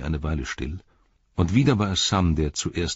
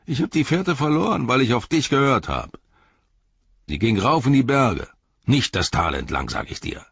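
irritable orc, higher at the outset; bickering orc; 8 semitones higher, 6 dB louder than usual. Acted. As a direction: complain like a quarrelsome orc.

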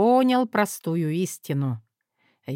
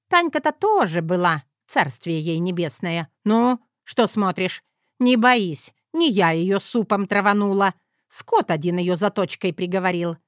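a light hint of a bossy old mother, louder; 3 semitones higher, 4 dB louder than usual. Mother bossing her son and his wife at the table, a lightly voiced bossy tone. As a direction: scold the new daughter-in-law, half-joking.

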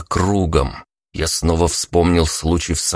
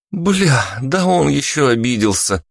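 exasperated exclaim; 9 semitones higher than usual. A narrator's reading. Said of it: "всплеснула руками рыжая".

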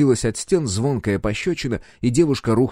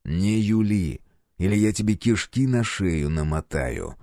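threatening; slower than usual. Acted. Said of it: "угрожающе навис".

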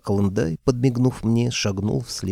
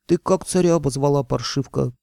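yelling; 6 semitones higher, 3 dB louder than usual. Acted. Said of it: "снова заорала главбух".

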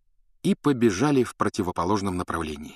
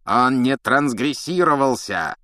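loud, slow furious insistence; shouting; 4 semitones higher, 5 dB louder, slower than usual. Acted. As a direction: yell it hoarsely. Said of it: "надрывался Снег". (надрывный крик)

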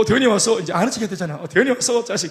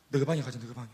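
much softer, sneaking-in voice; hushed urging; 7 semitones lower, 12 dB quieter than usual. Retold or imitated. Preacher sneaking into the room at night, hushed urging. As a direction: keep it down so the parents don't wake.

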